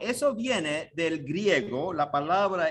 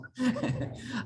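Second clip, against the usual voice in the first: breathy laugh; 5 semitones higher, 5 dB quieter than usual. Real, not acted. Laughs after the meek acceptance.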